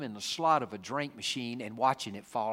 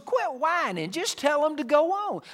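God scolding; 7 dB louder than usual. Retold or imitated. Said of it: "God says to Moses".

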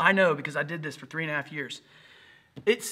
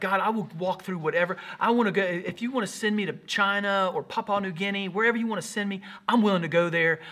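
raised, keen offering to God; excited, eager prayer; 3 semitones higher, 3 dB louder than usual. Retold or imitated. New Christian offering himself to God, excited and eager. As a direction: retell an amped-up new believer's prayer. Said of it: "I was, like, excited to do it".

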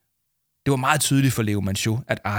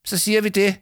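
meek high plea; 10 semitones higher, faster than usual. Acted. Dangling adviser giving in.

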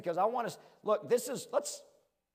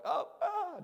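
mock scared; 12 semitones higher than usual. Imitating a frightened enemy.

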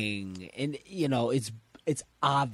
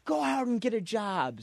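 higher-pitched imitation of a scold; mock nagging; 8 semitones higher than usual. Chi-Chi keeps telling Goku to work, mock nagging. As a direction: nag like an exasperated cartoon wife.

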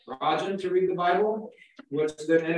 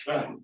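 gruff grunt; 4 semitones lower, 5 dB quieter than usual. Retold or imitated. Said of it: "used this gruff voice".

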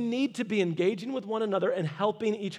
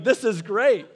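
louder, laughing delight; 7 dB louder than usual. Retold or imitated. Pastor delighted by the old couple, laughing. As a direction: chuckle it out happily. Enjoying talk with elderly man.

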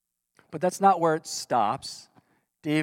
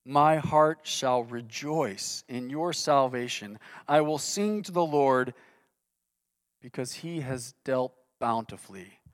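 trusting scripture reading; 3 semitones lower than usual. Acted. Pastor reading David's closing words of trust, gentle. Pastor reads psalm's hopeful conclusion.

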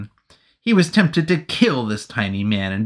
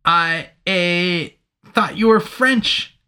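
higher, hesitant soldier; nervous soldier; 7 semitones higher, slower than usual. Acted. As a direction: say it like it explains everything.

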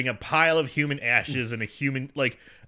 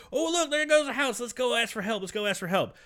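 put-on higher, gullible kids; naive kid voice; 9 semitones higher than usual. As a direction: chirp it like clueless kids. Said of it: "and like".

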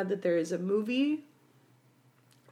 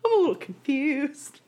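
high, slow baffled voice; bewildered; 13 semitones higher, slower than usual. Retold or imitated. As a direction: float it up high and slow, lost. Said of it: "we all got out of it like".

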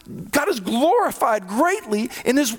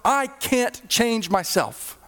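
a gentle acted prayer, unhurried; humble prayer. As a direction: pray it from need, slowing down. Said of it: "we go to God and we say".

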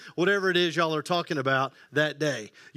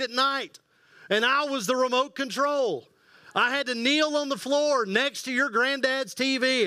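put-on old man voice; 5 semitones higher than usual. Old guy topping the young one's complaint, high and boastful. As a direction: ham up the know-it-all granddad. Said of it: "And he'll say".

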